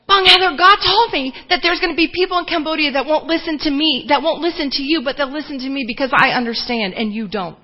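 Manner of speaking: high, loud announcement easing slightly by the end; so excited. Retold or imitated. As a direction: imitate her breaking big news eagerly. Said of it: "She was so excited to tell me".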